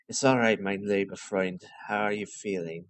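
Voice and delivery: put-on a kindly German doctor, lightly accented. Doctor reassuring his friend, German accent. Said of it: "do this guy with a German accent".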